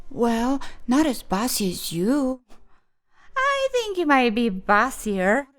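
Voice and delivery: lightly voiced pair trading teasing comebacks; playful bickering children. Two child friends teasing about bossiness, playful. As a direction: alternate voices in mild mock argument.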